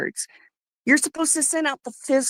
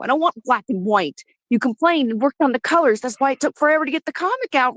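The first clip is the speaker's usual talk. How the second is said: angry rant. Real, not acted. Fan ranting at creator Vito, angry. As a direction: tear into him, really fed up. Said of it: "I am so fucking mad".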